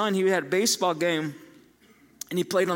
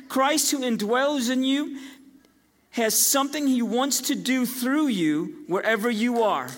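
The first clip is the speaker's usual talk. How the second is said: recited benediction. Retold or imitated. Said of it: "he would tell them".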